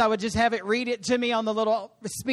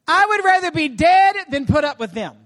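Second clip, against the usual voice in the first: louder, fed-up declaration; exasperated outburst as Moses; desperate complaint; 3 semitones higher, 5 dB louder than usual. Acted. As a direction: protest with heavy weight on "dead". Acted desperate plea of Moses.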